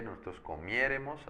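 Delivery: "comiéremos" stressed on the first E, miÉ. Shown as a demonstration. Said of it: "acento en la E".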